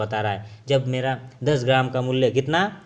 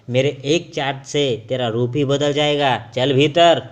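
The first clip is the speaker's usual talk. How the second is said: loud angry order at the end; threaten, then bark the command; 5 dB louder than usual. Acted. Iron threatening gold, angry loud command. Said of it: "लोहा गुस्से से क्या कहने लगा".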